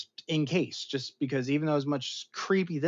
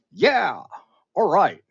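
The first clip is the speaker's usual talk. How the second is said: louder, higher heroic voice; video game Steve Rogers; 8 semitones higher, 12 dB louder, slower than usual. Retold or imitated. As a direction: play the gruff game hero. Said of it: "I turned into, like, Steve ... video game Steve Rogers".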